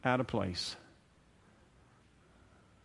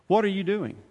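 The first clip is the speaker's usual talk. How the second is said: "What are you doing?" higher and pointed, hitting "What"; sharp rebuke; 7 semitones higher than usual. Shown as a demonstration. The Spirit's updated version, a firm higher rebuke. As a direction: call them out. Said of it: "Let me update it".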